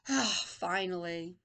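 slow, low sigh of arrival; a hint of grumpy relief; weary old man. Teacher voices old man reaching cafe, lightly weary. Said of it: "This man is very angry".

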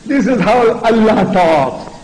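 emphatic preacher's force; militant proclamation. Shown as a demonstration. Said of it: "if I try to reproduce his militancy".

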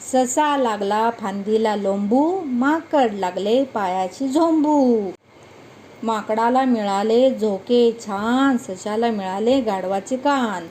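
put-on slow, sing-song poem reading for children; poem recitation. Teacher reciting a funny poem to children, slow sing-song. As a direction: recite each line slowly to the class.

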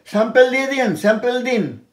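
স্যাম্পল as sem-pel, quoting doctors; doctor's mispronunciation. Retold or imitated. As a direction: mimic a doctor asking, স্যাম্পল with e vowels. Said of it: "ডাক্তারবাবু বলে".

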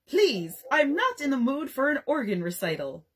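pompous little scold aimed at the guest; offended dignity. Acted. Jack rebukes the dinner guest with offended dignity. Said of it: "he said in offended dignity".

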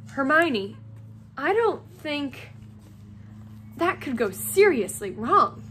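slow, halting doubt with pauses; hesitant objection. Acted. Friends doubt Hermione's risky plan, hesitant objection. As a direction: pick through the objection warily.

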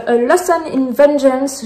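English title in a French accent; heavily French take on English. Real, not acted. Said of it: "mon accent anglais tout pourri".

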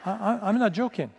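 chuckling through the words; laughing. Real, not acted. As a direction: laugh while admitting it. Laughing at his own honesty.

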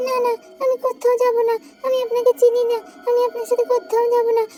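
put-on quick, scared child protesting; frightened refusal. Child refusing the strange woman who grabs her, frightened. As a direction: push the stranger away, panicky.

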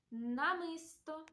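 "намисто" slowly, first N held; careful, drawn-out "намисто"; sound-highlighting pronunciation. Shown as a demonstration. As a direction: linger on the н opening "намисто". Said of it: "та відстежимо".

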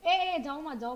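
loud, high call to stop someone; urgent calling out. Real, not acted. Streamer calling back viewers who are leaving, urgent call. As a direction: shout after them before they go.

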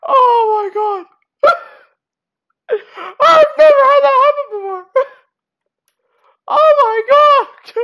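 high, squeaky laughing disbelief; giddy shock. Real, not acted. Player just escaped a bear attack, giddy shock. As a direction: squeal through nervous laughter.

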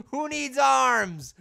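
loud, high, drawn-out cry; mock bravado shout. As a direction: call it out slowly with defiant bravado. Mock bravado after losing arms.

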